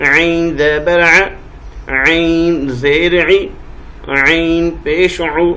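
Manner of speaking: slow throat-tightened ain on each vowel; throaty ain. Shown as a demonstration. Teacher showing children the ain sound, slowly. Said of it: "عین کی آواز آنی چاہیے".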